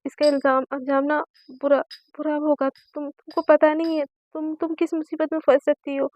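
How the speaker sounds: mock-angry father laying down the law; stern warning.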